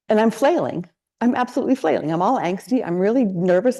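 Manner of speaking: mild panicky venting in the kitchen; flustered self-talk. Retold or imitated. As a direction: spill it out like a frazzled writer at her counter. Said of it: "Then out loud".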